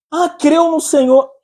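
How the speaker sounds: ordinary talk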